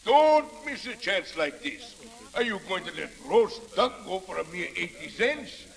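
auctioneer shouting going going sold. Acted. Auctioneer pushing bids, closing sale.

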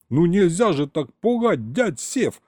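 high, indignant yell. A narrator's reading. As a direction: protest loudly after a scare. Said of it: "заорал я на всё поле".

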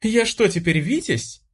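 high, amazed disbelief; can hardly believe it; girl stunned by her new rank, asking in disbelief. Acted. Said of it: "обалдела та".

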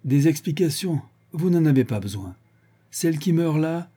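holding forth. A narrator's reading. Excited drunken chief to his accomplices, holding forth. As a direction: lecture them self-importantly. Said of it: "se mit à pérorer".

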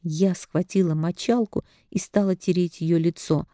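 ordinary delivery

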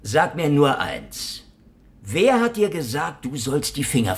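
insistent. Acted. Insists after interruption.

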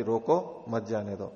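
रोको set apart from मत जाने दो; pause after रोको. Shown as a demonstration. Officer cites the king's command to travellers, pause after रोको. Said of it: "राजा का आदेश है कि".

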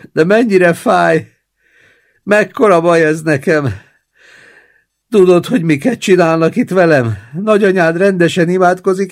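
high, loud moaning invalid; wailing old man. Acted. Old man wails in pain and bargains with his grandson, high and loud. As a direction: moan and manipulate the grandson.

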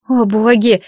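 plain reading voice

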